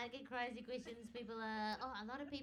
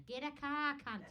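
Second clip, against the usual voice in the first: higher, louder rude retort; blunt Australian bus; 4 semitones higher, 5 dB louder than usual. Retold or imitated. Australian bus to would-be passengers, mock bluntness. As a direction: imitate a brash Australian bus. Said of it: "But in Australia, they just say".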